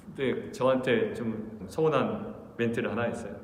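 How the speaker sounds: ordinary talk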